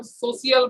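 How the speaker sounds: সোশিয়াল with three syllables, "so-shi-al"; old pronunciation. Shown as a demonstration. Teacher recalls the old habit, সোশিয়াল as "so-shi-al". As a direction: split the end of সোশিয়াল into "shi-al". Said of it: "আগে আমরা কি বলতাম".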